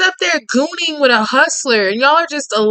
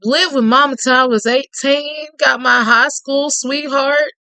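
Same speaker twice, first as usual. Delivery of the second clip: lightly voiced Cajun man. Reading Tate's lines to the listener in a lightly voiced Cajun charmer's tone.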